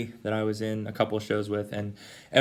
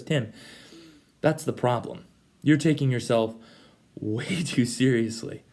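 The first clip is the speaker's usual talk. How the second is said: amused Jesus; slower than usual. Retold or imitated. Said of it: "And he goes".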